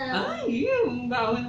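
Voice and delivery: high-pitched cry of disgust; mock disgust. Cohost reacting to talk of vehicle smoke, disgusted.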